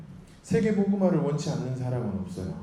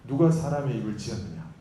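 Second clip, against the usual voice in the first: acted anger; 3 dB louder than usual. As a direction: scold like an exasperated God. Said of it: "하나님 화를 내시죠". (화내는 하나님 흉내로 호통치듯)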